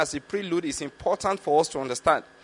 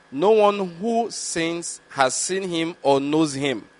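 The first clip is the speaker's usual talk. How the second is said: slow, measured reading of the verse; scripture reading; slower than usual. Acted. Preacher reading scripture to the congregation, slow and measured. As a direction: read the Bible passage deliberately to the congregation.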